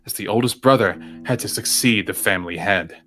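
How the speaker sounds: measured read-aloud narration; story narration. A narrator's reading. Player reading the game's text to friends, measured narration.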